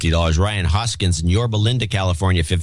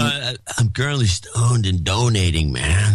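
stoner dude voice. Shown as a demonstration. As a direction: play a laid-back stoner. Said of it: "read the rest of this in the stoner dude voice".

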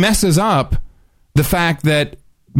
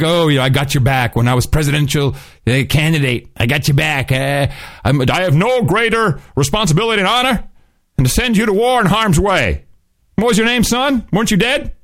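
pontificating president. Retold or imitated. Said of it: "pontificate and say".

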